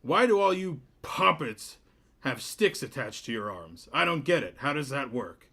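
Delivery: very high, loud, stretched-out mayor voice; a tiny piping voice for a big man, dragging the name out; mismatched mayor voice. Acted. Mayor greeting Cliff, in a squeaky, booming voice. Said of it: "voice does not match his stature".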